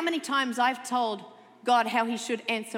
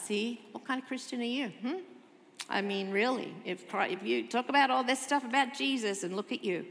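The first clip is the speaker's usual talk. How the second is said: mocking cynic. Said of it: "and then the cynic starts".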